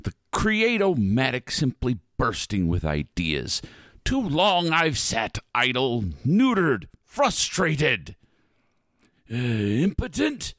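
theatrical sinister host; spooky ride narrator. Acted. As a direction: grandly savor the return.

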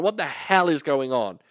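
mild mock outraged mum; mum's outburst. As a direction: lightly voice the startled mum asking what's going on. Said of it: "She went".

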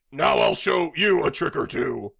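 lightly put-on Middle Eastern accent. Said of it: "Can you also do, uh, Middle Eastern?".

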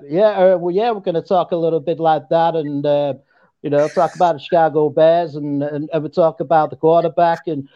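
attempted American accent, a touch Brooklyn; English speaker trying out an American accent. Shown as a demonstration. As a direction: have a go at a casual American accent. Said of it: "can you do an American accent?".

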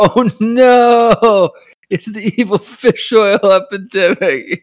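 high, loud mock dismay; sarcastic gasp of doom; mock dramatic alarm. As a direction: ham up the horror of it. Mocking the show's fish oil plot.

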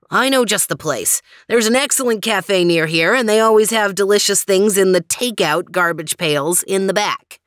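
a touch of the eager gourmet; lightly voiced suave character, eager. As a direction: recommend it like a proud local guide. Voices Max offering a cafe.

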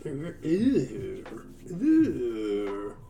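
drawn-out falling "ew"; badly faked cartoon grunt of disgust; stretched-out mock "ew"; attempted character noise. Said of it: "I can't even do that sound".

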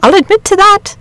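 high, animated rustic storyteller; worked-up countryman describing a wonder; excited shepherd. A narrator's reading. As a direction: marvel at the beast in a shepherd's voice.

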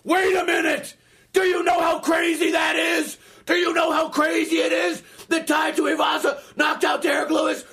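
put-on high-pitched, insistent drunk shouting; drunken yelling. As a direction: imitate a worked-up drunk haranguing someone. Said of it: "still drunk, goes".

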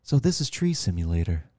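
low, soft, unenthusiastic imitation; mock a sarcastic video guide in a low, quiet voice. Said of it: "doing it sarcastically".

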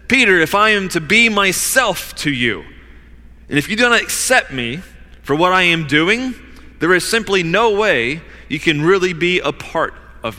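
very strong statement. Acted. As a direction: state the terms with force. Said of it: "It's a very strong statement from Jesus".

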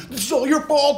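put-on ein hoch gebrüllter Wutanfall eines Teenagers; teen tantrum. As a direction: yell it high like a furious teenager at mom. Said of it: "teenage shit to be like".

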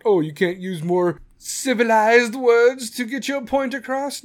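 slow, snooty put-on voice of a critic; mocking critic. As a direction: sneer it like a prissy know-it-all, slowly.

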